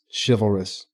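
soft, low admiring "Chivalrous." with a falling end; a touch of dreamy admiration on "Chivalrous.". Retold or imitated. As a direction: breathe "Chivalrous." out low and soft, half in awe. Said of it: "She's admiring him".

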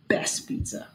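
soft secretive whisper. Real, not acted. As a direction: lean in and whisper it. Whispered recommendation.

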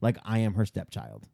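low, hushed imitation of a friend; mock confession. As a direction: drop low and soft, as if confiding. Voices co-host's sheepish confession.

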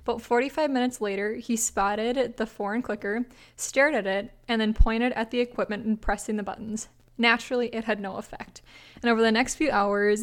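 measured, even read-aloud voice; story narration. A narrator's reading. Host reading a listener's prank story to co-host, measured narration. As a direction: read it out like a short anecdote.

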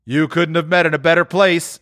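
put-on high, wheezy old dealer voice; a crafty old fence welcoming them; sly old pawnbroker; old Joe.

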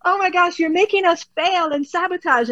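mock-whine at a friend who bailed; frustrated cortex. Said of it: "The cortex is like".

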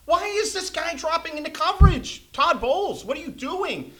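rising fury at a bad play call; getting angry. Real, not acted. Fan podcaster yelling at Todd Bowles, angry shout. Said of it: "I'm getting all angry".

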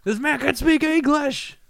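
high, stretched-out mock disbelief; hammed-up shocked reaction; mock astonishment. Voicing astonished reaction to Messi.

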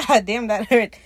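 mock pained yelp through a laugh; a laughing, half-hearted hurt cry. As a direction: laugh while faking the ouch. Swede hurt by whip.

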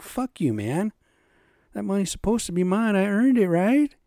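high, loud angry retort; angry outburst. Retold or imitated. Griping about unemployment withholding his money, angry outburst. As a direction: spit it out like you've been cheated.

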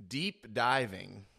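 DEEP drawn out slowly and set apart; stress on DEEP. Real, not acted. Teller hinting at scandalous research, stress on DEEP. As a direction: lean slowly on the word "deep". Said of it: "emphasis on deep".

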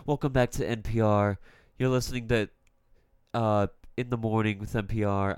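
smooth radio host read; big boy podcast announcer. Acted. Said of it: "I'm using my big boy podcast voice".

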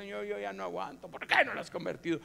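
retold exasperated prayer, rising at the end; mock-tearful complaint to God; tearful plea. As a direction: imitate a wife pleading at her wits' end. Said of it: "Un día llorando le dije".

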